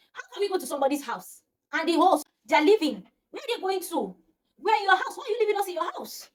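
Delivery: half-laughing confused outrage, climbing up; incredulous questions building to a high pitch; baffled protest. Retold or imitated. Asking why the hosts leave.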